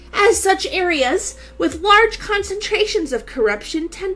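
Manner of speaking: lightly voiced character narration; a hint of a dramatic heroine; Akira voice. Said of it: "I was just doing Akira's voice".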